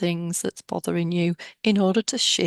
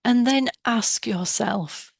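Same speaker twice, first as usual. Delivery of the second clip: calm guided-meditation voice with long pauses; measured, soothing meditation leader. Real, not acted. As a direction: guide listeners inward, leaving space after each instruction.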